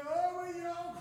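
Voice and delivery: plaintive, drawn-out wail for a lost pet; mock crying call. Searcher calling for the lost dog, mock crying. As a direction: call out tearfully, hamming it up.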